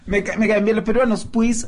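lightly put-on Peruvian accent; imitated Peruvian accent. Podcaster joking that he likes Peruvians, light Peruvian accent imitation. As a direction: give a mild mock-Peruvian lilt. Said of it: "buena imitación".

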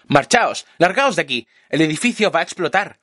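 shout. A narrator's reading. Narrator warns the group to flee, rising shout. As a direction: yell at them to get away. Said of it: "Les grito".

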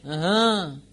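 lightly acted absent "uh-huh"; a hint of a kid absorbed in a game; monosyllabic gamer child. Child answering parent's dinner call, absent monosyllable. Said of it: "que se comunican por monosílabos".

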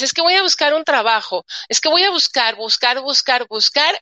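voz más aguda, repitiendo "buscar" con prisa nerviosa; ansiedad imitada. Retold or imitated. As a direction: imita a alguien angustiado buscando trabajo. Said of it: "es ansiedad". (imitación ansiosa, más aguda)

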